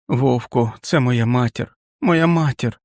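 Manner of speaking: rising to a high desperate cry; plead, voice climbing; high urgent plea. Acted.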